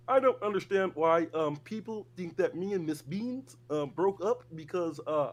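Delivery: lightly voiced Kermit the Frog, nasal-free but put-on; a mild, half-hearted Kermit the Frog impression for chat. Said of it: "That was a really good Kermit".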